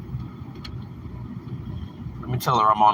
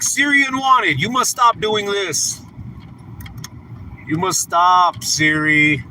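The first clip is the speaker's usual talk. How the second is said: mock YouTube warning; 3 semitones higher than usual. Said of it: "They're like".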